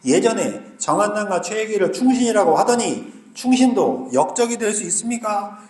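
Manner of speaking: usual speaking voice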